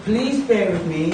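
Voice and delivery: hoarse sore throat voice; talking through a sore throat. Real, not acted. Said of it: "I've got a really sore throat".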